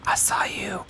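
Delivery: whisper. Real, not acted.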